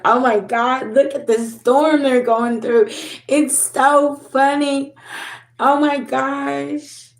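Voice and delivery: high, gushing mock delight, slowing at the end; mocking gleeful gossip. Mocking the people who laughed at her storm. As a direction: sneer like a gloating onlooker.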